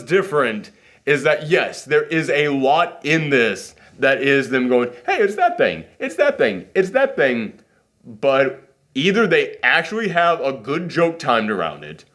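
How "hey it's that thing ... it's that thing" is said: high, repeated gleeful call-outs; mock excited pointing. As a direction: imitate someone eagerly spotting references. Mocks films pointing at references.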